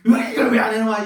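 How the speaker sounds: high, loud mock griping; retold irritated outburst. Preacher mimics himself grumbling over unfinished work, exasperated. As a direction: act out your own fed-up complaint, pitch jumping up.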